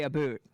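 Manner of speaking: "a boot" with a long oo; "a boot" for about. Shown as a demonstration. Describing East Coast speakers, "a boot" with oo. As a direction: say "a boot", rhyming with suit. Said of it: "the kind of people who say".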